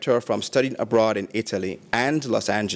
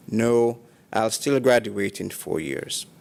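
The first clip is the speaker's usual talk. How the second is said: imitating a calm, even reply. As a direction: quote her evenly, without any fuss. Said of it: "again in a calm voice".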